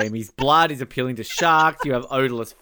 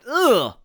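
grossed-out "ugh", pitched up; disgusted ugh; 7 semitones higher, 3 dB louder than usual. Real, not acted. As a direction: recoil with a revolted groan. Disgust at talk of feet.

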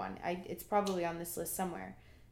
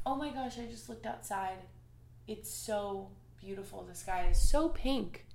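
excited. Real, not acted. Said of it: "I just got really excited".

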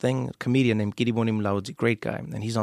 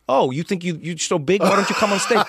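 taunting challenge; 7 semitones higher, 5 dB louder than usual. Retold or imitated. Comedian taunts the sober teen.

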